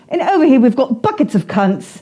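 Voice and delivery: British meteorologist. Acted. Comic retelling a British forecast slip to podcast hosts, lightly voiced meteorologist. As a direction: give a hint of a British forecaster on air. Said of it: "There's some British, uh, meteorologist".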